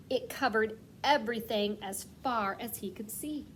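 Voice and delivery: put-on gentle storybook read-aloud for kids; reading to children. A narrator's reading. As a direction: read it like story time for kindergarteners. Teacher reads story aloud.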